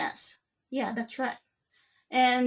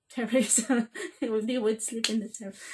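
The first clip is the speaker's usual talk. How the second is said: amused. Real, not acted. Amused by own example.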